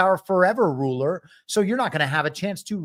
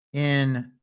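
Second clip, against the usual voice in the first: France said the French way, nasal and lightly rolled; a silly put-on French accent on France; mock French accent; 3 semitones lower, 3 dB quieter, much slower than usual. Host jokingly saying France with a mock French accent. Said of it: "How many silly ways can I pretend to have a French accent".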